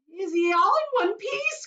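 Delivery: high, loud worried cry; anxious cry. Acted. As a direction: cry it out fearfully. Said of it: "cried Missus T V".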